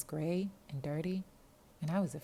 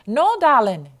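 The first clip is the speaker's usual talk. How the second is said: hissed no; 9 semitones higher, 19 dB louder, slower than usual. Acted. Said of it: "hissed at me".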